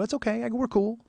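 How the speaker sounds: high-pitched, unforced reassurance; retold reassurance. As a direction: wave off an apology in a light high voice. Retells reassuring the embarrassed clerk.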